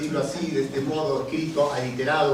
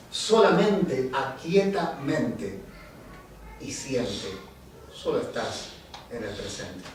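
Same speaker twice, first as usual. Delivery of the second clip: poem recitation; 3 semitones lower, slower than usual. Acted. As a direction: let the poem settle into silence. Poem settles to its close.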